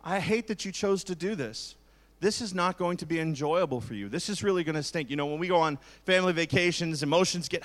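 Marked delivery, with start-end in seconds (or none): 0.0-5.1 sincere sympathy. Shown as a demonstration. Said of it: "you can use words like".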